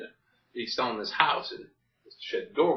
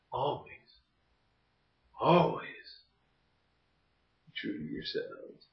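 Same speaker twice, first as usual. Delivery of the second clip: sappy advice. Acted. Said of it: "Oh, that was sappy".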